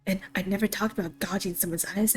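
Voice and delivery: fast, cracking with laughter; a giggly, teary rushed denial; teary laughing read. Real, not acted. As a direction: push through the line while laughing. Streamer half-crying with laughter.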